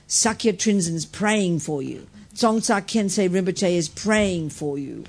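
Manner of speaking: slow, deliberate words into a patient's ear; steady, slowly intoned reassurance; retold bedside prayer. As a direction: draw each word out, half as fast. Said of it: "loud, kind of soft, but right in her ear".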